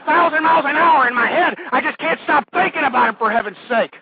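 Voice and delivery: building from tense to loud and high; overwhelmed, increasingly worked-up stoner; agitated paranoid rant. Pretend. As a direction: pile up racing thoughts into a frantic rant. Stoned host's racing, panicked rant.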